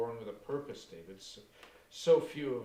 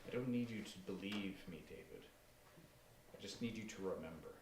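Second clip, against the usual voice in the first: quiet menace; 5 dB quieter than usual. Acted.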